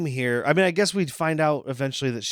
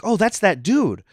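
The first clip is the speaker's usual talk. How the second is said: imitating Cricket; 7 semitones higher, 4 dB louder than usual. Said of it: "she's like".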